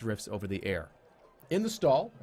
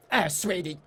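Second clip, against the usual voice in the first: higher, slow cutesy goblin voice; half-goblin barmaid; 6 semitones higher, 3 dB louder, slower than usual. Acted. Half-goblin barmaid telling the player the beer prices, higher and slow. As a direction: talk down sweetly like a goblin barkeep.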